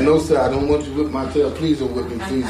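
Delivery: put-on quick, lightly pleading child; mock pleading. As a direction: beg hurriedly, acting it out. Child begs father not to whip.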